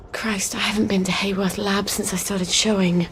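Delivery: whispered worry to herself. Acted. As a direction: breathe it out unvoiced. Mother dreads going to the lab.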